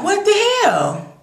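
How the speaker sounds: high-pitched incredulous exclamation; baffled disbelief. Retold or imitated. Viewer unsure of seeing Tara again, baffled.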